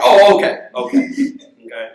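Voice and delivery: quick, high, loud okays breaking into a laugh; light mock relief, fast; relieved neighbor, laughing. Jamaican neighbor hearing the explanation, high laughing relief.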